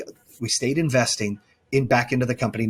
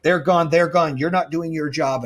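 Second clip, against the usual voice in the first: firm dismissal; 5 semitones higher than usual. Retold or imitated. Boss retelling how he fired lazy staff, firm and raised. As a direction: bark out the verdict like a boss cleaning house.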